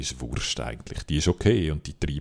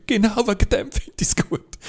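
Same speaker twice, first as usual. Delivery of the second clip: much higher and louder, an indignant squeal; mock retort; 8 dB louder than usual. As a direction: fire it back like a triumphant gotcha. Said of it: "hätte ich können sagen".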